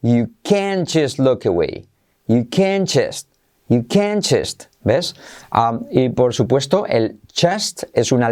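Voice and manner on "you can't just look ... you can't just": "can't" said like a stressed "can", slowly; slow demo, land hard on "can't" and drop its T; stress on CAN'T, silent T. Shown as a demonstration. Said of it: "acentuando la palabra". ("can't" como "can" acentuado, sin pronunciar la T)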